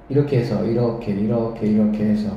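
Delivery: low, softened self-talk; absent murmur while drawing. Real, not acted. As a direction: murmur along with each stroke as you draw. (그림을 그리며 낮게 혼잣말하듯)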